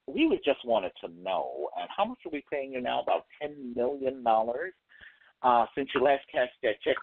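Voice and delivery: lightly put-on polite white executive voice; a prim, overly polite boss asking questions. Comic retelling a stand-up bit, lightly imitating a polite white executive. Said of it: "in that white voice".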